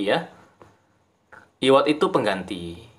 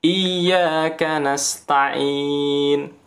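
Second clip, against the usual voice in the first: chanted recitation with short vowels; short qasar recitation; much slower than usual. Shown as a demonstration.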